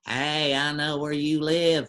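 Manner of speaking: slow, drawling cartoon neighbour voice; Mister Anderson voice. The speaker on the back mic doing the cartoon voice, slow drawl. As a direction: draw it out lazy and menacing as the cartoon neighbour. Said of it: "loved that voice when he was Mister Anderson".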